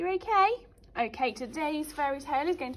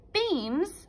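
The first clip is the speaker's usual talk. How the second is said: mock angry mum; 7 semitones higher, 4 dB louder than usual. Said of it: "said Mum angrily".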